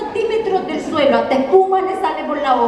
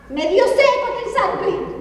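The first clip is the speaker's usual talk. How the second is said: put-on higher, slow whiny child plea; whiny kid; 7 semitones higher than usual. Girl asks mom for a drink, higher slow whine. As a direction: stretch it like a spoiled kid.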